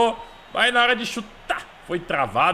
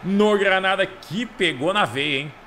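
explosive goal commentary; much slower than usual. Real, not acted. Celebrating goal, stretched out.

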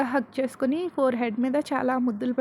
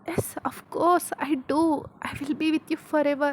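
tender bride-to-be; 3 semitones higher, much slower than usual. Acted. Woman accepting proposal, voiced.

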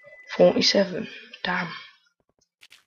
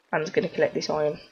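chav voice; faster than usual. Pretend. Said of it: "Man's talking like a chav".

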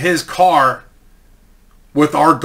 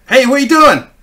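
higher, louder mock-casual greeting; casual phone greeting; 10 semitones higher, 5 dB louder than usual. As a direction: call out an overly casual hello, imitating teammates. Calling a player on the payphone.

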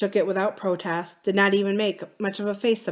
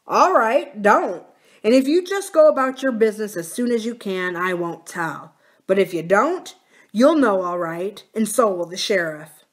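louder, firm warning; lightly voiced threatening brother; 2 semitones higher, 6 dB louder than usual. Brother warning the sick woman to leave, lightly menacing. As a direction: press the threat home with force.

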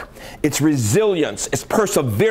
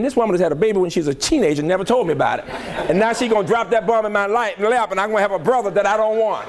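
indignant inner thought; 4 semitones higher, faster than usual. Retold or imitated. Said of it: "I'm thinking".

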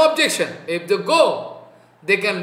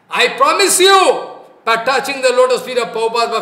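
emphatic vow; 3 semitones higher, 6 dB louder than usual. Real, not acted. Solemn vow to his listeners.

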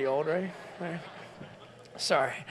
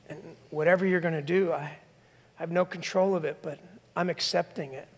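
softer, surrendered prayer; quiet acceptance. Retold or imitated. Woman praying to God in quiet acceptance. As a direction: hand it over gently. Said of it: "and saying".

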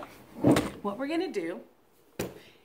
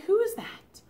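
surprised; 10 semitones higher than usual. Shown as a demonstration. Surprised at picture.

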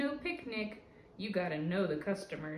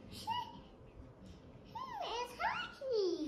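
laughing; 6 dB quieter than usual. Real, not acted. Aside to child with laugh.

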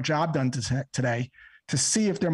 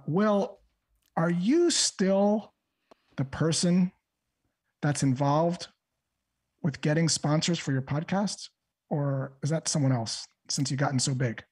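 humble; slower than usual. Shown as a demonstration. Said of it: "humble way, I'm gonna say this".

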